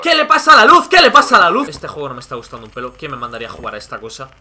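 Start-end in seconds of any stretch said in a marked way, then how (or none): 0.0-1.7 loud, high-pitched panic; startled, much louder and higher; alarmed shout. Real, not acted. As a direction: cry out in alarm at the game. Alarmed by failing lights.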